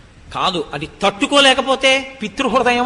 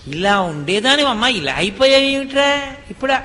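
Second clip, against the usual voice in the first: tearful father; 4 semitones higher than usual. Retold or imitated. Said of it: "ఏడుస్తాడు".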